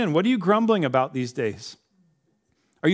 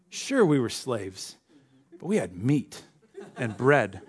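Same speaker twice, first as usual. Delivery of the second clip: grumbling. Retold or imitated. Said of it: "how quickly they think".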